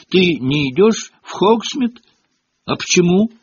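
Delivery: high, wide-eyed questioning; eager young admirer. A narrator's reading. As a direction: pitch it up like a curious little boy. Adoring younger boy questions Harry.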